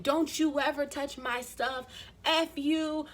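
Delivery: a mild mock furious rant; angry retold outburst. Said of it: "Bill's accent came out".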